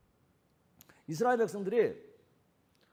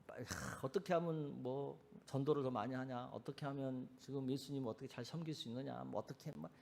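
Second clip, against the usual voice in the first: softer, sighing to himself; worried muttering; 4 semitones lower, 11 dB quieter than usual. Retold or imitated. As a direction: brood over too many worries. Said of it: "생각이 많은 거예요". (한숨 섞인 걱정스러운 혼잣말)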